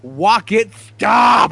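high, loud whiny protest at a pet; imitated kid's yell. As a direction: yell it like a child fending off the kitten. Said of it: "the sound of Jax going".

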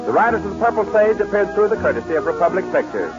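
vintage show sign-off; bright old-time announcer read; old radio announcer. Acted.

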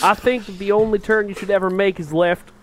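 put-on Southern nascar pundit; Southern accent. Co-host gives nascar opinion, playful Southern accent. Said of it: "we're a Southern nascar podcast".

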